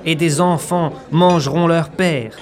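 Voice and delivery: solemn prophetic proclamation; preaching. Acted. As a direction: thunder it like an Old Testament prophet.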